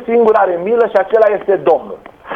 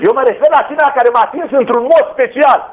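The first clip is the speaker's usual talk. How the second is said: Jesus raised to a shout; insistent cry; 3 semitones higher than usual. Acted. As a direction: call it out over the crowd. Jesus insists on special touch.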